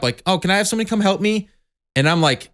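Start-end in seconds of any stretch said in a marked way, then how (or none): 0.3-1.5 higher, fast, pleading customer voice; mock helpless shopper calling for help; whiny customer. Customers at Home Depot calling for staff, whiny. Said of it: "got their hand up".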